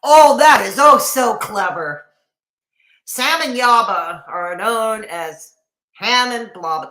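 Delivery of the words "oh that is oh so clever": sarcastic. Real, not acted. Mocking the nickname.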